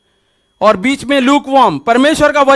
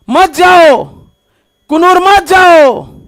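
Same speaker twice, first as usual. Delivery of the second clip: higher, drawn-out calls, lightly acted; nagging devil; 3 semitones higher, slower than usual. Devil telling believer not to go, insistent nagging. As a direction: keep urging them not to go, pleading tempter. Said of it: "वो बोल रहा है, लगातार बोल रहा है".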